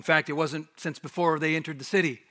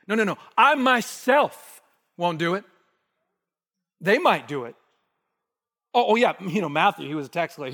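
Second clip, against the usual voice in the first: cocky, loud and emphatic Peter; boastful Peter; 3 dB louder than usual. Acted. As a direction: brag as if above the others. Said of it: "It's like an ego eimi thing".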